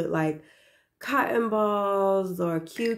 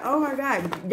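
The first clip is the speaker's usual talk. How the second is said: excited; 5 semitones higher than usual. Retold or imitated. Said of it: "I got so excited".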